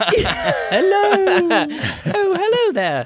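very high, slow, drawn-out drag-queen voice. Joking about a Missus Doubtfire situation: Mrs. Doubtfire voice. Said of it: "That's how you sound like. Why are you in full drag?".

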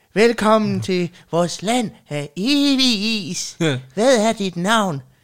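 high, slow penguin voice with evig stretched long. Acting out penguins greeting a newcomer, in a penguin voice. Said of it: "Den måde, der imiterer pingviner på, er fucking perfekt".

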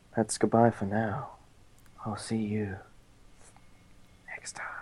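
whispered, breathy, lecherous romantic voice. Saying goodbye as asked, in the most romantic way: pervy romantic voice. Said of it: "I was going for a romantic, not pervert".

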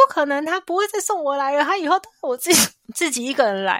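mock loud, furious, high angry shouting. Retelling answering a classmate who said her father brought her: imitating an angry shout. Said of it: "我就大声的骂说".

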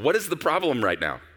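mock sugary, needling, sweetly sarcastic tone. Retelling what the Lord said in rehearsal: the Lord, sweetly and sarcastically. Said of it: "the Lord kind of sweetly and sarcastically go".

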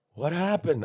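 bewildered, dazed, stunned man in shock. Retelling meeting a shocked award winner backstage: imitating someone in shock. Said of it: "he was in complete shock".

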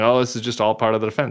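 normal talking voice

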